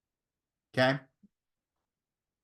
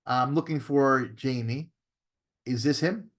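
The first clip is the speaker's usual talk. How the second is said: measured cold-call opener, slow on the name asked for; drawn-out, controlled sales-call greeting; changed phone tonality; 2 semitones lower than usual. Shown as a demonstration. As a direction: introduce yourself in a deliberate, measured phone tone. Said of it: "I change my tonality".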